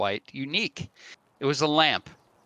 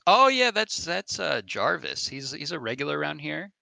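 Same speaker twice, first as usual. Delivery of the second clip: bartender voice; 4 semitones higher than usual. Acted.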